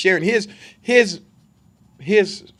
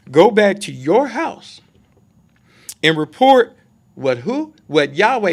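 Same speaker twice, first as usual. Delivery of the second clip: voicing Yeshua; 6 dB louder, slower than usual. Slow emphatic quote of Yeshua.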